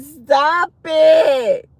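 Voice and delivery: loud laughing stop it; laughing plea. Real, not acted. Streamer begging a viewer to stop, laughing. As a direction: beg them to stop through laughter.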